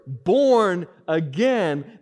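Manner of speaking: "born again" drawn out slow and loud; emphasize "born again" like a key word; stress on born again. Shown as a demonstration. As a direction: lean hard on "born again", slow it right down. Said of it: "You see the words".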